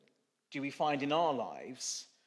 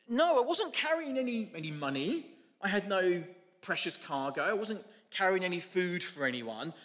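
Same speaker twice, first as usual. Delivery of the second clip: a lightly voiced donkey who won't be told; indignant donkey; 3 semitones higher than usual. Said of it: "the donkey says".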